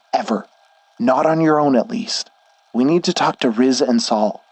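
a hint of a stern worried friend; lightly voiced Schnee. Schnee scolds then explains.

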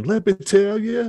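high, slow mock Italian crooner; drawn-out, hammed-up "Let me tell you"; imitating an Italian singer. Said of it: "he keeps saying".

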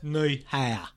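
low, mock attempt at a Chinese accent. Comic goaded by co-host to try it, mock Chinese accent. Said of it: "just try a Chinese accent now".

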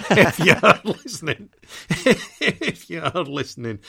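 loud, high gloating jeer broken by laughter; carried away. Real, not acted. Football fan taunts a rival listener, loud and carried away. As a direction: taunt at full voice, laughing as you go. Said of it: "got a bit carried away there".

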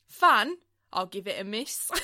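mock English accent, breaking into a laugh; extreme English accent. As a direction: imitate an American's strained English accent. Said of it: "such an extreme English accent".

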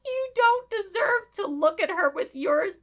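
lightly voiced outraged mother; mock fierce mother. Jill defending her child, mild hammed-up outrage. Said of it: "She goes".

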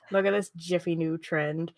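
lightly voiced fifties transatlantic newspaperman; mock mid-Atlantic accent, understated. Newspaper announcing the new fad, light transatlantic accent. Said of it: "That's my best transatlantic accent".

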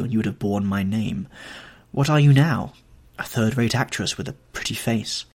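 lightly voiced young man, cold and scornful; bitter rejection. Dorian casting off the actress he loved, bitter and scornful. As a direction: coldly tear down the woman who failed him.

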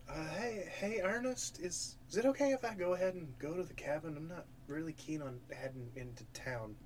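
nervous. Acted. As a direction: ask timidly, with a touch of nerves. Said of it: "Tilly is visibly nervous".

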